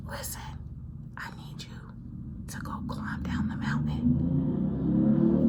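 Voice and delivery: soft unvoiced whisper, slowing down; Spirit whispering. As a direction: breathe it like a spirit in your ear. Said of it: "whisper something in your ear".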